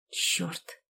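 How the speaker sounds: breathless scared whisper; frightened whisper. A narrator's reading. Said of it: "прошептала испуганно".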